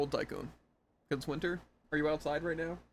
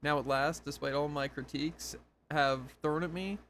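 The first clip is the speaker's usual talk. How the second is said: dramatic narration. Acted. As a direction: read the log like a grand speech. Reading a lore log aloud.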